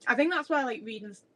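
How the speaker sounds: talking with food in mouth; mouth full. Real, not acted. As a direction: speak round a mouthful of cookie. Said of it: "I keep talking on my mouth".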